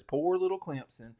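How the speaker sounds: lightly put-on Southern accent, poking fun; a hint of a Southern accent, teasing the coach's phrase. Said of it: "I'm sorry for the Southern accent".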